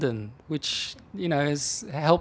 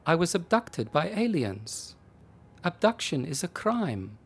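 insistent; 3 semitones higher than usual. Acted. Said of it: "she reminded the officer".

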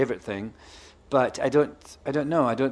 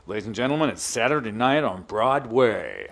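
stage manager's announcement; 3 semitones lower than usual. Retold or imitated. Retelling the backstage call before the evening show, imitated announcer. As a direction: imitate a tannoy call, stretching the last words. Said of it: "the speaker would come on and he'd go".

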